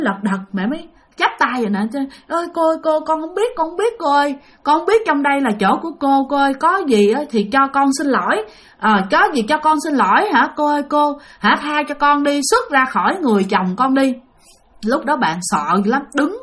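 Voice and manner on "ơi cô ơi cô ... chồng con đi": pleading. Retold or imitated. Mother begs spirit with clasped hands.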